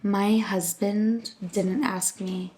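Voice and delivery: lightly voiced wife grumbling about Valentine's; mock complaining wife. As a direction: imitate a sulking wife. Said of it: "talk about the controversy".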